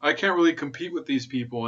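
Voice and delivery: whiny mock Kamala Harris. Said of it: "she was like".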